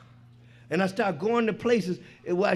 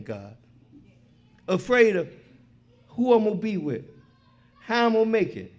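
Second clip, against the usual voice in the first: pleading prayer; 3 dB louder than usual. Retold or imitated. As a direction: pray it out, ashamed and pleading. Praying to God.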